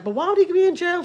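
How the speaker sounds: high-pitched mock wail; tearful whine without real sobs; retold crying. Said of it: "She's all crying".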